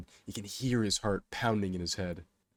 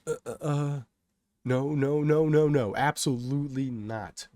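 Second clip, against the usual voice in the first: panicked refusal; 6 semitones higher, 6 dB louder than usual. A narrator's reading. Kay put on the spot by the crowd, panicked refusal. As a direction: stammer into loud, high repeated refusal.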